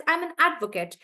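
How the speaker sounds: "advocate" with the weight on AD; noun stress. Shown as a demonstration. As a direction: punch AD in "advocate", let "kut" fall. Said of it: "I would stress on the first part".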